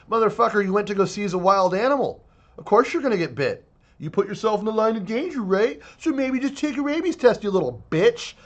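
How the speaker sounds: angry rant. Real, not acted. Furious rant at wildlife officers.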